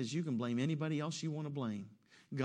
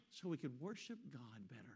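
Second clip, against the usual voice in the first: suddenly hushed, pious excuse; mock piety; 15 dB quieter than usual. Preacher finishing Saul's excuse for the congregation, mock piety. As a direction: drop to a small, soft, mock-pious voice.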